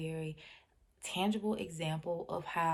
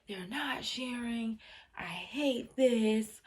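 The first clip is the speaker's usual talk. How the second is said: put-on higher-pitched, drawn-out child's complaint; mock angry tantrum; 4 semitones higher, much slower than usual. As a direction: imitate a child's tantrum without screaming. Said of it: "screaming at the top of her lungs".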